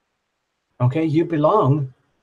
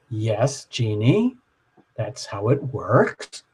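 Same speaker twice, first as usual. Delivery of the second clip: calm group voice; 4 semitones lower, 4 dB quieter, much slower than usual. Retold or imitated. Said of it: "And everyone says".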